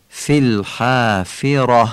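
slow الحافره with "fi" said like a short ee; short i kasras. Shown as a demonstration. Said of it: "مثل ای ولی کوتاه".

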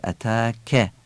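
اتاکه with a crisp ک after a long light alef; sharp kaf. Shown as a demonstration.

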